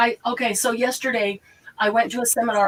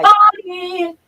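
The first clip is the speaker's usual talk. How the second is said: excited greeting; 9 semitones higher, 8 dB louder than usual. Real, not acted. Greeting a viewer who just joined.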